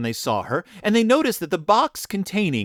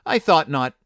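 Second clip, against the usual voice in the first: triumphant; 4 dB louder than usual. Acted. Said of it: "said triumphantly".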